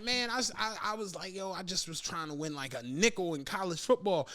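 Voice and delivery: low, soft retold confession; quietly owning up, a touch defeated; mildly downcast. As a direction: drop it down like a sheepish admission.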